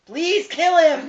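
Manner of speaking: high, loud, drawn-out begging; hammed-up pleading. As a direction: beg loudly like a desperate viewer. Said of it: "I'm like".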